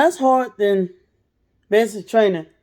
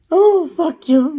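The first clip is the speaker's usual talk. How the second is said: slow disgust; 6 semitones higher, 4 dB louder, slower than usual. Retold or imitated. Cursing the warm water.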